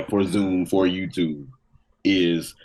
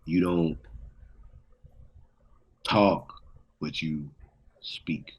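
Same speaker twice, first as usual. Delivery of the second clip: stoner voice; 3 semitones lower, 7 dB quieter than usual. Pretend. Deep stoner musing.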